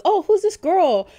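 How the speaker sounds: put-on high, slow, puzzled kid voice; puzzled child. Children in the theater puzzled by the sobbing fan, high and slow. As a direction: ask it like a confused little kid. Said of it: "children who are like".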